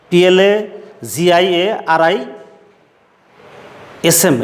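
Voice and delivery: slow letter-by-letter spelling. Shown as a demonstration. Teacher spelling a hard word for students, slow spelling out. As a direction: spell it aloud in halting groups of letters.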